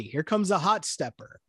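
HOT STEPPER spoken as careful everyday words; amused, say "hot stepper" unsung and straight; the lyric spoken stiffly for laughs; funny straight reading. Shown as a demonstration. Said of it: "But it just sounds funny".

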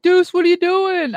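put-on high, excited call from an old friend; the friend on the phone, surprised to reach Deuce, high and lively; imitating Mike. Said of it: "He's like".

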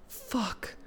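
very soft exclamation; quiet, drawn-in reaction; hushed curse. A narrator's reading. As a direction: let the word slip out under the breath. Character's hushed exclamation in story.

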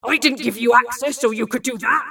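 loud, angry protest; indignant. A narrator's reading. Bill objects to Lorelei abusing her access, loud indignation. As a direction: throw the accusation at full voice.

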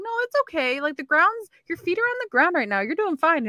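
high-pitched imitation of soothing girls; imitated reassurance. Girls at the next table calming a crying drunk guy, imitated high reassurance. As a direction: coax a drunk stranger, pitched well up.

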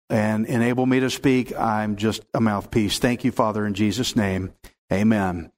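pastor's opening prayer, earnest then hushed. Real, not acted. Opening prayer before the reading.

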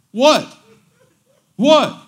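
high, loud mock-insistent "what"; insistent questioning. Friend presses preacher for the secret, mock-insistent. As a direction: imitate someone pressing hard for an answer. Retelling friend demanding to know.

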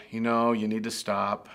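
put-on calm, even warning to a child. Parent calmly warning a child near the street, calm. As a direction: say it calmly, no alarm at all. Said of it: "We didn't just calmly say".

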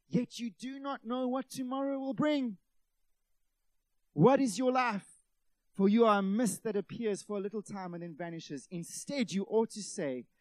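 scripture reading. Real, not acted. Preacher reading James to the congregation, emphatic scripture reading. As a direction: read it out to a congregation, leaning on key lines. Reads a Bible passage aloud.

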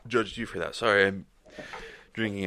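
burping through the words; hiccup burps. Real, not acted. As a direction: talk while holding back soda burps. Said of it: "the hiccup burps".

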